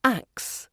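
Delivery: "ax" for asks, k before s; swapped cluster. Shown as a demonstration. Teacher imitating Indian learners' error, sounds swapped in "ax". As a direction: say asks as "aks". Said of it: "Indian speakers often turn asks into".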